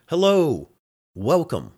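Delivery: high, bright mock greeting from the cat; cheery pretend cat host; cat's voice. Voicing the cat at door.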